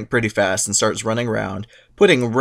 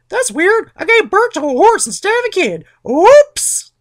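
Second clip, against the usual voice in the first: very high falsetto feigned surprise; Rhea faking innocence; 6 dB louder than usual. Retold or imitated. Rhea fooling Cronus with falsetto fake surprise. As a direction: play dumb sweetly. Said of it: "she's like".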